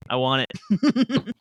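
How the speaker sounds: mock pleading. Begging Lionel for his tag.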